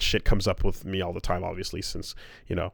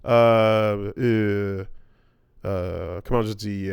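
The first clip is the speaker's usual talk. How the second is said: Quebec French accent. Shown as a demonstration. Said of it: "if I talked like this the whole time".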